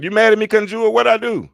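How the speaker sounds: very high, loud squeal of playful disbelief; mock protest. Host asking a viewer why she's mad, squealed mock protest. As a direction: plead innocence loudly, way up high.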